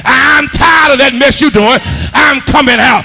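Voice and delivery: driving, rhythmic sermon delivery; full-force preaching. Real, not acted. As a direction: preach hard, stretching key words into shouts.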